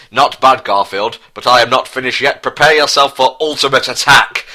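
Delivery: a cartoon villain yelling his next move; mock shout. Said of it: "shouted Prince Harry".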